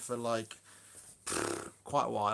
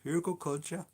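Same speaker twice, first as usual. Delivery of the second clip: higher, questioning mock Dutch accent; bad Dutch accent; 5 semitones higher than usual. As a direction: say it in a badly faked Dutch accent. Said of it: "a really bad Dutch accent".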